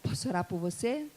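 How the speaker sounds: soft, low repeated question; gentle offer. Retold or imitated. Preacher retrying her offer of prayer, gentle and low. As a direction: ask quietly and politely. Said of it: "eu falei em alemão".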